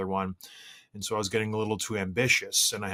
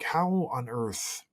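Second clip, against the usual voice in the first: incredulous dad; slower than usual. Retold or imitated. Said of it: "I'm just like".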